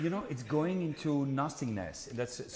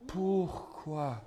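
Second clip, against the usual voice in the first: pourquoi sung out high, searching; questioning pourquoi; 6 semitones higher than usual. Shown as a demonstration. Coach shows the singer a searching pourquoi. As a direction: ask pourquoi as a real question. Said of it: "other thoughts behind the text".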